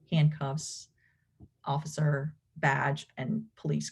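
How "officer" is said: usual speaking voice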